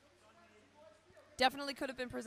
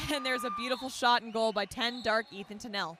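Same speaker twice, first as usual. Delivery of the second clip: excited goal call; 6 dB louder than usual. Real, not acted.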